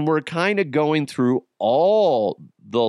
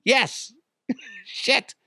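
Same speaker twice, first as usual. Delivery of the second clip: mock panicked admission; 8 semitones higher, 3 dB quieter than usual. Retold cornered confession.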